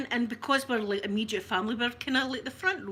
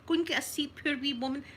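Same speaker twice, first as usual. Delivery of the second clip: higher-pitched, fussing concern, re-enacted; consoling; 5 semitones higher than usual. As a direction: act out comforting a hurt old lady. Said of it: "we're trying to console her".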